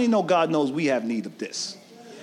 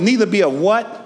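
louder prompt. Shown as a demonstration. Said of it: "say it louder".

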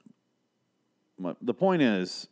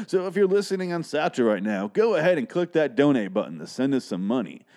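host reading the sponsor script, hyped announcer voice; 3 semitones higher than usual. Acted. Reads sponsor ad aloud.

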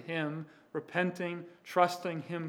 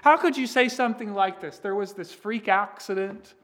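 higher, quicker indignant complaint; outraged protest; 4 semitones higher, 5 dB louder than usual. Acted. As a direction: protest in disbelief. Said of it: "might be outraged with Jesus".

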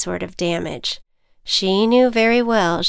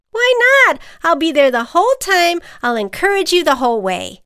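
much higher, louder eager ant; 9 semitones higher, 7 dB louder, faster than usual. Acted. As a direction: rush to reassure her. Ant character voice.

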